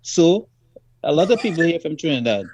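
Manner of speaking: mock the curt Londoner's shrug; rude dismissive ticket man. Imitating the ticket seller brushing him off, curt and dismissive. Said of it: "It's very rude".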